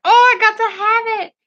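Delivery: high, fast, eager gasp of wanting; excited gush. Retold or imitated. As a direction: squeal it like you spotted a treasure. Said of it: "I was like".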